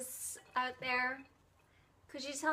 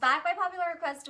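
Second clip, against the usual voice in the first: higher, louder showman announcement; announcer voice; 6 semitones higher, 5 dB louder than usual. Pretend. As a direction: announce it like a game show host. Echoes it as a showy announcer.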